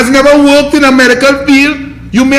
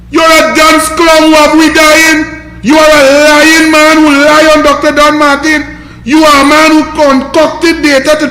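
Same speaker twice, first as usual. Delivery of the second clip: slowed, louder accusing rant, voice pushed; heated rant; 3 semitones higher, 3 dB louder than usual. Real, not acted. Ranting at the minister, angry and louder. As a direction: hammer the accusations home, slowed down.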